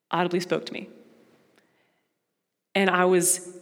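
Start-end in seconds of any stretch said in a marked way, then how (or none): 0.1-0.9 softer, awed repeat of audibly spoke to me; an awed whisper-soft echo; hushed echo. Real, not acted. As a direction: let it sink in, quietly. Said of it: "God audibly spoke to me".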